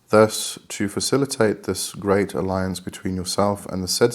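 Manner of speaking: formal, measured reading-aloud voice; steady bookish read-through. Acted. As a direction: read the dense passage out carefully. Reading passage from the book.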